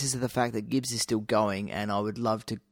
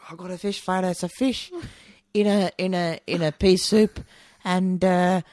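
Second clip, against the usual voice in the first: higher and louder, hammed-up pitchman voice; put-on character voice; 7 semitones higher, 8 dB louder than usual. Mock pitchman to co-host, describing a hat pie, higher and louder. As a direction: sell the pie floater gimmick like a goofy carnival barker.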